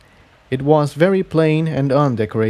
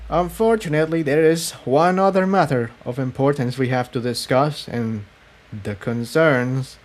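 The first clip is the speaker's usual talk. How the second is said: lightly raised, measured voice of a grave rebel leader; Cerulean's voice; 3 semitones higher than usual. Acted. Cerulean explains the attenuator to Jigsaw, grave and measured. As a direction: explain the dark secret carefully, a touch higher.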